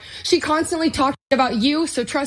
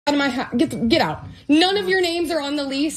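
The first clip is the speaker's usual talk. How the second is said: shouting at trespasser. Real, not acted. Roommate ordering parents out.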